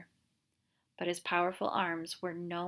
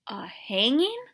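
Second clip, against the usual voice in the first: shocked whisper; 5 semitones higher, 3 dB louder, slower than usual. Acted.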